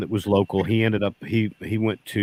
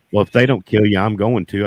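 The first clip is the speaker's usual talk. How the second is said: louder, half-joking threat; stern mock warning; 6 dB louder than usual. Retelling the warning to the beekeeper friend, loud mock threat. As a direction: lean on it like a fed-up mentor.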